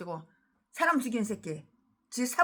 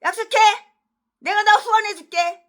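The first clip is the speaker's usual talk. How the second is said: eager promise; 9 semitones higher, 11 dB louder than usual. Retold or imitated. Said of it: "그는 그들에게 후원을 약속했어요".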